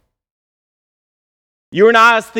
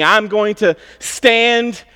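higher, louder, slowed demand building then easing off; Habakkuk's demand; 6 semitones higher, 4 dB louder than usual. Acted. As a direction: challenge God with mounting intensity. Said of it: "Habakkuk has a similar thing".

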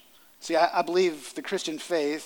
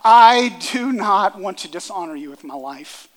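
loud pleading prayer; 4 semitones higher, 10 dB louder than usual. Acted. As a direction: pour it out to God, loud and urgent. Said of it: "is a prayer of saying".

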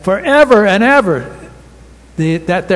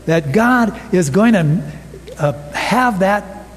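urging amen; 3 semitones higher than usual. Real, not acted. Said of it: "you are supposed to say".

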